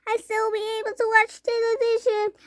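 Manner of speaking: put-on tiny boy squeaking; squeaky tiny boy. A narrator's reading. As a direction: squeak back defiantly. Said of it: "squeaked the tiny voice".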